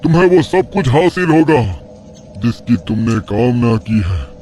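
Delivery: a hint of a cruel old mystic; taunting tantric. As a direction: sneer at his faith and his daughter's fate. Sage tempts the father.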